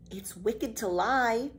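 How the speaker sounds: slow, shy reproach; timid girl Annika. Acted. Annika finally speaks up to Pippi, slow shy reproach. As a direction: say it slowly, barely daring.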